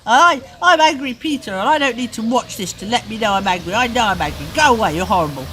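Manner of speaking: put-on loud, high, furious child shouting; angry yelling. Parent voicing Peter yelling to stop the film, angry yelling. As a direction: yell at the telly to stop.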